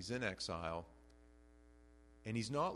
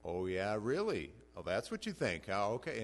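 sarcastic; 4 dB louder than usual. Retold or imitated. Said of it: "I've read some that someone has sent to me and thought".

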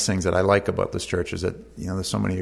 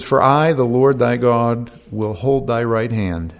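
solemn proclamation; 5 dB louder, slower than usual. Acted. Proclaiming God's promise aloud.

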